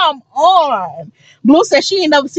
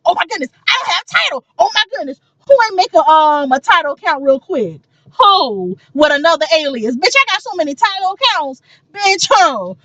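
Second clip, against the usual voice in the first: higher and faster, retold panic; frantic rush; 3 semitones higher than usual. Retelling scrambling for a Tidal account, high hurried panic. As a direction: panic like you'll miss the album. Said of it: "Bitch, I ran".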